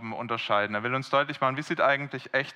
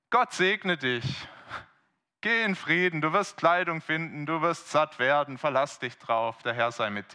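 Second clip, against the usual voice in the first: mock pious warmth. Rich churchgoer brushing off a needy brother, mock pious. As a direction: sound kind while giving nothing. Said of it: "Das klingt so warm, das klingt so freundlich".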